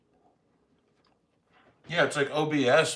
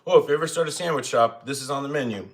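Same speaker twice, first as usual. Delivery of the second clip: louder, bright mock pitch to a friend; playful joking exclaim; 3 semitones higher, 5 dB louder than usual. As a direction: toss it out as a cheeky joke. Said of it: "I always joke about things like".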